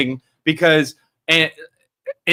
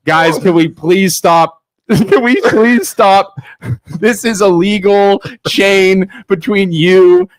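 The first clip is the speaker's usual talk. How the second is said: fed-up dad. Retold or imitated. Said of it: "the mayor comes in like a dad".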